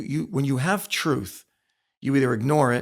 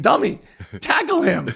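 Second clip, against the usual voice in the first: higher, louder coach bark; mock coach yell; 7 semitones higher, 6 dB louder than usual. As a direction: bark it like an angry coach grabbing a helmet. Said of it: "the coach grabbing my helmet and saying".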